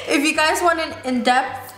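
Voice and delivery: slow careful words with braces; talking with braces. Real, not acted. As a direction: carefully articulate around braces. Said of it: "it's so hard to talk with braces".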